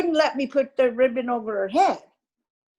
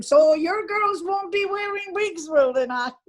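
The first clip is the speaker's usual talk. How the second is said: teasing jibe; 7 semitones higher than usual. Retold or imitated. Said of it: "they were all giving me a lot of slagging".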